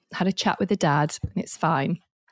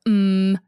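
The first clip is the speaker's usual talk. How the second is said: louder savouring mm; catchphrase mm; 6 dB louder than usual. Shown as a demonstration. Host performs segment catchphrase about a footballer, loud mm. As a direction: punch out a satisfied hum. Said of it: "Declan Rice didn't go".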